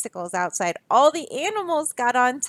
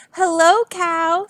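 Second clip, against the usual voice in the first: Duck voice; 6 semitones higher, slower than usual. Acted. Duck greets Cow in story.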